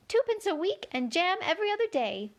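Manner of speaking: high, fussy White Queen. A narrator's reading. Queen corrects Alice in a high fussy voice. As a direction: pitch the Queen up high and flustered.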